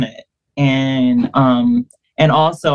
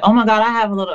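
excited gasp; 7 semitones higher, much faster than usual. Retold or imitated. Excited quote on seeing cross.

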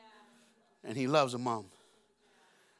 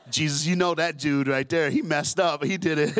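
mock blaming; 6 dB louder than usual. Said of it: "I'd blame Peter".

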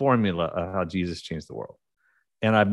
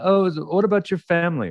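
curious Brit; 9 semitones higher, 4 dB louder than usual. Retold or imitated. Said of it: "people would go".

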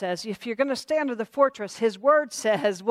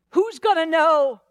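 high, loud, slow temptation; drawn-out coaxing enemy voice; goading tempter; 5 semitones higher, 5 dB louder, slower than usual. Acted. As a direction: stretch it out as a taunting question. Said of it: "the enemy's like".

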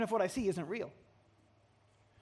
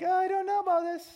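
doubtful; 8 semitones higher than usual. Acted. Gideon hesitant.

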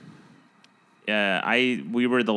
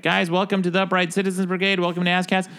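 higher-pitched imitation of a show's opening; show intro host; 8 semitones higher than usual. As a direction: imitate hosts welcoming the audience, pitched up. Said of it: "starting to do their intro".

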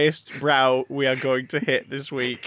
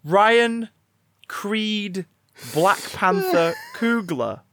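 slow, higher hype build of the name; hyped announcement; 3 semitones higher, much slower than usual. Real, not acted. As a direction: announce him like a prize fighter.

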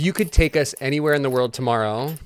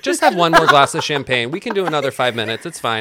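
lightly voiced pushy TV producer, a touch louder; Bachelorette producer; 7 dB louder than usual. Co-host playing a reality-show producer coaxing the guest, light mock coaxing. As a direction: coax like a reality-show producer milking tears. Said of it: "I'm now the Bachelorette producer over here".

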